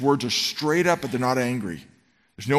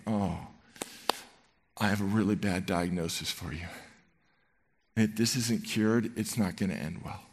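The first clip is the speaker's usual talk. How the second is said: compassionate; 4 semitones lower, 6 dB quieter than usual. Acted. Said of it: "I think it's that tone, the compassionate".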